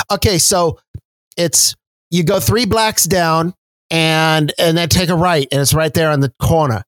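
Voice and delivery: imitated Chicago accent, Boston-sounding. Woman giving street directions to a driver, Chicago accent. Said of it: "introduced to the Chicago accent".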